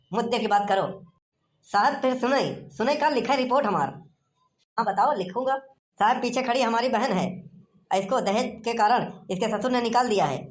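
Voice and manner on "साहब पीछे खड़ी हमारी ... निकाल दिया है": switches from Bhojpuri to standard city Hindi. Acted. Villager addressing the police officer, putting on standard city Hindi. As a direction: speak polished urban Hindi instead of village dialect. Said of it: "अबे तुम भाषा काहे change कर रहे हो?".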